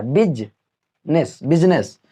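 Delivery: "बिजनेस" drawn out slowly, no middle i; careful slow demo; slow correct word. Shown as a demonstration. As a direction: stretch "बिजनेस" then say it short. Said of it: "कहाँ आई पढ़ा मैंने".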